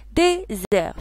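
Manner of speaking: DÉSERT said in two separate beats, dé, zert; clapped syllables. Shown as a demonstration. Teacher shows pupils the syllables of désert, split apart. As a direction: break désert evenly into its syllables. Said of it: "Frappez-moi le mot désert".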